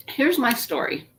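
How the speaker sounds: talking around a cough drop; mouth full. Real, not acted. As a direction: cough drop in her cheek. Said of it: "I have a cough drop in my mouth".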